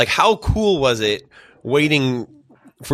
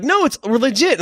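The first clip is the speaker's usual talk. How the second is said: retold insistence; 11 semitones higher, slower than usual.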